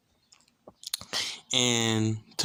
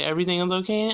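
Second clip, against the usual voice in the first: raised pitch, checking question; questioning nurse; 6 semitones higher, much faster than usual. Retold or imitated. Nurse checks on the patient, questioning.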